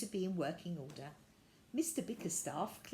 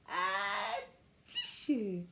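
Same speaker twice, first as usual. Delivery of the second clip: sneeze; 4 dB louder, much slower than usual. Acted. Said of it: "suddenly there was a loud".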